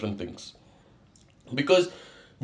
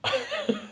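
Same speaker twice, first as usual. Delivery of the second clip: a sudden laugh, pitched way up; high burst of laughter; 6 dB quieter than usual. Real, not acted. Vlogger cracking up at his own gout story. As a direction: crack up before telling it.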